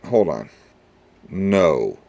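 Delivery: put-on flat monotone teenage daughter. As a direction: drone it like a sullen teen. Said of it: "if I can mimic that".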